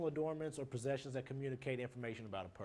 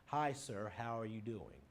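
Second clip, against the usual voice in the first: respectful, restrained greeting to a teacher; polite formal greeting; 3 semitones lower than usual. Shown as a demonstration. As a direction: greet your teacher properly in class. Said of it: "As opposed to in class".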